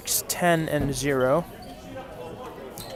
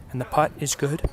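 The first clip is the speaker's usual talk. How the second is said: hushed, softer golf call; golf commentator; 4 dB quieter than usual. Shown as a demonstration. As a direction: murmur it like a golf broadcast. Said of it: "I'm talking like a golf commentator. It's very quiet".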